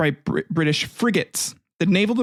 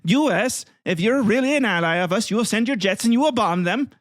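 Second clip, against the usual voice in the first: mock outraged Icelandic leader; 6 semitones higher than usual. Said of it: "They're like".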